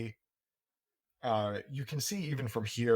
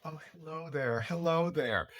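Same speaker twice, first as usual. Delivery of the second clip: flowing hostess greeting; 4 semitones higher than usual. Acted. GM voicing the hostess greeting the party, flowing and gracious. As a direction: glide through the hello like a gracious hostess. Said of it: "like, flowing thing of".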